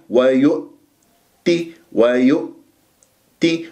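ويؤتي very slow, clean glottal stop; slow recitation. Shown as a demonstration. Tajweed teacher modelling ويؤتي very slowly. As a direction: close the hamza cleanly in ويؤتي. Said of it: "بهذه الطريقة".

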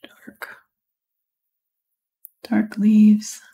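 soft, absorbed near-whisper; hushed murmur while concentrating on the work. Real, not acted. Painter talking through dark leaves as they work, whispering. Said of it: "Sorry, I'm whispering".

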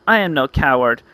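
high, dramatic hero declaration; hammed-up heroic proclamation; heroic speech. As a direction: build to a high, rousing battle cry. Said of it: "I make my little speech".

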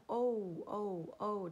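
O drawn out as a long "oh". Shown as a demonstration. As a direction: hold each O as a long vowel. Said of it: "O的长音". (O 念成拉长的长音)

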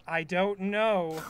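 slow, dazed and unsure; drawn out like he's forgotten himself; spaced-out SpongeBob. Retold or imitated. SpongeBob dazed, telling Squidward he doesn't know his name. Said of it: "like, acting very flaky".

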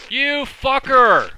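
furious yell at the zombie; angry shout. Real, not acted. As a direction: curse it out, loud and high. Zombie surprise attack.

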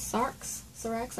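Sarx tried twice, quiet and questioning; quietly sounding out "Sarx"; unsure pronunciation. Real, not acted. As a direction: test out "Sarx" softly, unsure of it. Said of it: "I don't know".

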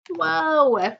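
loud high whoa; surprised. Real, not acted. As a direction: gasp out in amazement. Reader reacts to the web.

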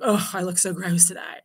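whispered disgust at own reflection; self-critical whisper. Retold or imitated. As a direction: breathe it to the mirror, disgusted. Parent criticizing self in mirror.

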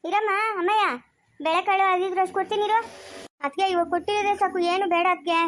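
acted village figure. Offering provisions to a relative, high-pitched insistence. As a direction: pitch it up and keep the words lively.

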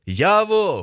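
high, loud call for a friend; hollering. A narrator's reading. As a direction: holler the name across a field. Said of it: "гукаю нарешті".

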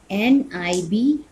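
letter by letter, drawn out; slow spelling. Shown as a demonstration. Teacher spelling a word slowly for pupils. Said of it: "आई बोलते हैं ना".

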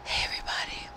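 soft breathy whisper; whispering on the phone. Real, not acted. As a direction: whisper it so nobody wakes. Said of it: "I have to whisper tonight".

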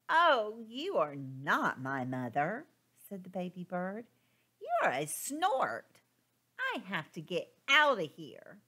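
lightly voiced chick, a bit cross; indignant baby bird. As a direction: tell the big machine off. Baby bird scolds the snort.

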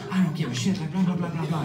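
mock nonstop trash talk; offhand imitation of someone talking big; Magic Boro. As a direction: rattle on like a careless bragger. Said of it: "just talking like that".

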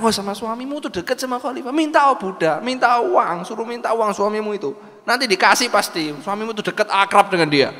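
high, coaxing persuasion; wheedling busybody. Acted. Busybody persuading the wife to ask the caliph for money, high and coaxing. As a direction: talk her into asking for money.

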